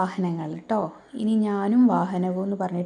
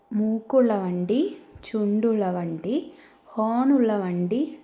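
put-on slow sing-song reading of a children's rhyme; poem recital; slower than usual. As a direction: recite it slowly, line by line, for little kids. Continues the rhyme.

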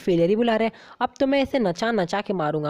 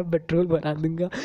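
laughing; 3 semitones lower than usual. Real, not acted. Repeats the line laughing.

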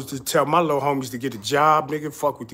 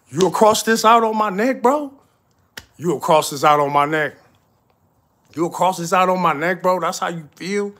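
indignant shout; 4 semitones higher, 5 dB louder than usual. Real, not acted. Outraged at a crossed-out tattoo.

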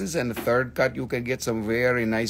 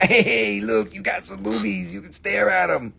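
higher, lightly voiced husband; mock the husband ogling; 6 semitones higher than usual. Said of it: "to be like".

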